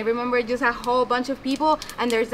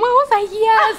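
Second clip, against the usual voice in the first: high excited yes; excited retold cheer; mild mock scream; 9 semitones higher, 7 dB louder than usual. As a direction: relive the joy loudly. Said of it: "screaming and crying in my room".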